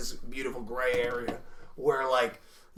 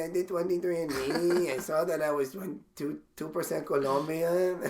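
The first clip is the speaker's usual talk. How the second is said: campy put-on Hispanic accent; gay Hispanic voice; 4 dB quieter than usual. Comic telling mom about his roots, campy Hispanic voice. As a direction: plead as a caricatured gay Hispanic son. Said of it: "like, a gay Hispanic voice".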